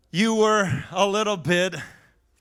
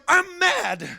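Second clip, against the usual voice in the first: exasperated complaint; 8 semitones higher than usual. Retold or imitated. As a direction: play the buddy who can't follow the sermon. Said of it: "And he's like".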